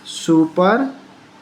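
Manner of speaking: "सुपरसीड" slowly in two parts, long ee in the last. Shown as a demonstration. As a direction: break "सुपरसीड" after सुपर, then hold the ee. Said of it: "बड़ी ई होता है". ("सुपरसीड" धीरे, बड़ी ई के साथ)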